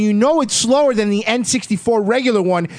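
high, indignant gamer excuses; sore loser's complaint. Acted. Gamer blaming the controller after losing, indignant complaint.

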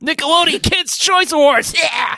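Jack Black voice. Pretend. Imitating Jack Black excitedly.

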